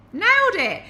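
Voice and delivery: high and loud, proud; triumphant. Real, not acted. Bragging to viewers about her pasta, triumphant and high. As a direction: crow about a win.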